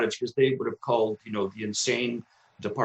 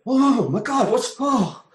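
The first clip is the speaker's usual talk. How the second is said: high, loud astonished "oh my God"; suddenly floored by the feeling; breathless wonder; amazed gasp; 11 semitones higher, 5 dB louder, slower than usual. Retold or imitated. First breath after recovery.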